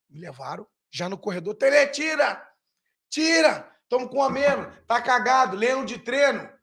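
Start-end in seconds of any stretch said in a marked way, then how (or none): 1.5-6.5 higher, raised voice of an angry fan; mock terrace heckle, pitched up; imitated heckling. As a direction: call out for a substitution, acted. Acts out crowd demanding a substitution.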